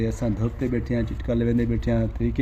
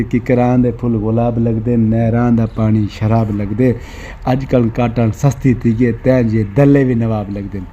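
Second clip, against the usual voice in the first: slow poem recital; 7 dB louder than usual. Retold or imitated. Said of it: "بہوں بدماشی والا شعر".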